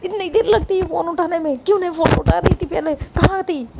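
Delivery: a hint of a telling-off; mild mock yell at friend for late pickup; mock scolding yell. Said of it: "Neetu पे भी चिल्लाने लगती है".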